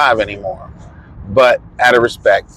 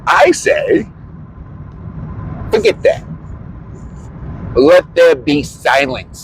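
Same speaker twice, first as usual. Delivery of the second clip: mock proclamation; slower than usual. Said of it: "mock proclamation".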